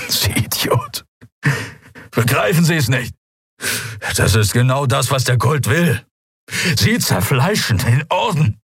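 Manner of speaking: a wounded man lashing out; pained anger. A narrator's reading. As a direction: prisoner berating the commodore, strained anger. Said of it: "Es tat ihm weh".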